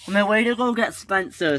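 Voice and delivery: a touch of dejection, understated; sad. A narrator's reading. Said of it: "said Whiff sadly".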